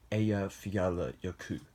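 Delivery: Eyjafjallajökull as coached by a native speaker, ay-ya-fya-la-yo-ku; careful Icelandic name. Real, not acted. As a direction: sound out Eyjafjallajökull syllable by syllable, trying for the Icelandic. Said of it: "apologize if I did not get the pronunciation correct".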